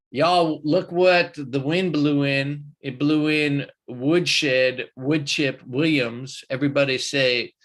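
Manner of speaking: loud, drawn-out announcer call; hyped welcome. Real, not acted. Host greets arriving viewer Woodshed, hyped announcer call. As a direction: announce the arrival like a ring entrance.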